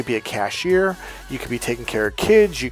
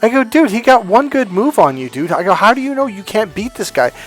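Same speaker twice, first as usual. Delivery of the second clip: raised, higher voice, pressing him; pushy challenge; 7 semitones higher, 5 dB louder than usual. Retold or imitated. Pushing a discouraged wrestler.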